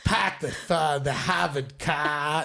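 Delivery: put-on lightly done Boston accent for the agents. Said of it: "I could do a Boston accent".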